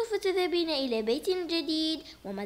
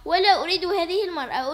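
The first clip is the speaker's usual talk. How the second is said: angry demand; 6 dB louder than usual. Acted. Daughter demanding angrily.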